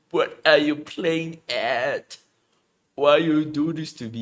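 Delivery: loud shaken yelling; scared horror game streamer. Real, not acted. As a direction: shout at the screen, spooked. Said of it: "You even jump scare me".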